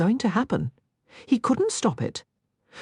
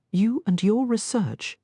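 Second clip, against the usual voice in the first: disgusted; 6 semitones higher than usual. Acted. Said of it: "as if it were obscene".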